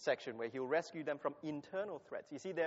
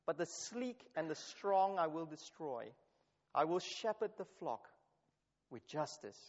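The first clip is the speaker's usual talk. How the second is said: measured, solemn Bible reading; scripture reading; 3 semitones lower than usual. Acted. Preacher reading Ezekiel to the congregation, solemn. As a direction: read the Lord's words with weight. Reads Ezekiel passage aloud.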